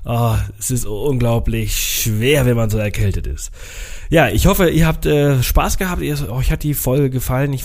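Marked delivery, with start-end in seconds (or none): 0.1-3.5 short of breath. Real, not acted. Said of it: "Ich krieg keine Luft".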